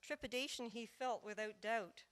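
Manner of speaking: rhythmic storytelling in verse; lilting verse narration with measured pauses; narrative poem recital. Acted. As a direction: tell the tale as a ballad, leaning on the beat.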